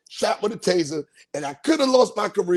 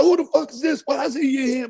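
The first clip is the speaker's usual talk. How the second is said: angry shout; 6 semitones higher than usual. Retold or imitated. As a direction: bark it at the intruder. Angry men confronting intruder.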